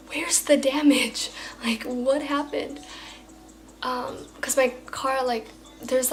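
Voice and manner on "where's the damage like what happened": retold surprise. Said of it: "such a surprise to me".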